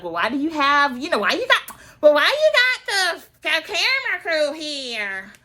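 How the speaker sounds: high, whiny-style imitation of objecting; exaggerated high-pitched protest; mock indignant complaint. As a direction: act put out, stretching the last words high. Acts out Kenya's complaint at door.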